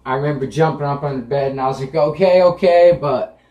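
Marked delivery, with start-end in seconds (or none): 2.0-3.0 higher and louder panicked okays; retold pained yelp, pitched up; mock screech. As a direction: yelp it out in pain. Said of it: "my voice was probably a lot higher and I was screeching".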